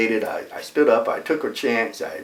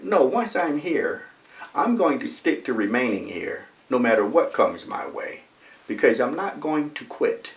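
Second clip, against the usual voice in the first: determined; 4 semitones higher than usual. Retold or imitated. Student resolving not to quit, determined. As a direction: vow to stay put. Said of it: "one of the few students that determined".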